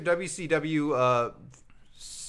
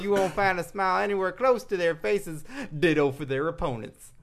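higher, lively Southern read; put-on Southern accent; 5 semitones higher than usual. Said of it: "I like the accent".

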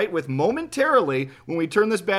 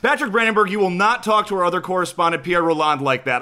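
stern scolding; 3 semitones higher, 6 dB louder, faster than usual. Acted. Host reprimands the reporter.

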